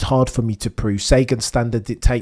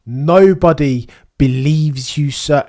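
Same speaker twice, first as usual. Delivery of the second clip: mock scolding; 4 dB louder, slower than usual. Scolding Zak Brown directly.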